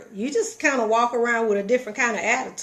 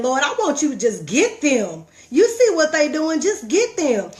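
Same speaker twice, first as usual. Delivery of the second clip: pleading complaint; 4 semitones higher, 4 dB louder than usual. Retold or imitated. Acts out her complaint to God.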